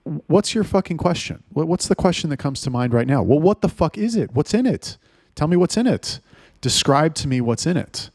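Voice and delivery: incredulous, rising demand for an answer; exasperated demand. Real, not acted. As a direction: pitch climbing as the frustration builds.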